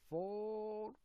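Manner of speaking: high, drawn-out Minnesota accent. Shown as a demonstration. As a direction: stretch the vowel, playful Minnesota try. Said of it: "I'm gonna do my Mid-, Minnesota accent".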